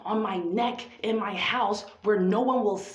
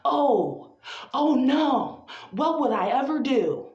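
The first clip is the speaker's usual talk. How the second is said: mock dismay; 3 semitones higher, 4 dB louder, slower than usual. Poet mocking her own alarm, a hammed-up wail of dismay. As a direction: throw up your hands in fake horror.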